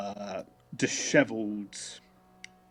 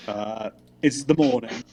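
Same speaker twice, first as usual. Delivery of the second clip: ordinary talk, nothing marked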